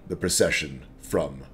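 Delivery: a hint of a wary, calculating half-orc; sly half-orc.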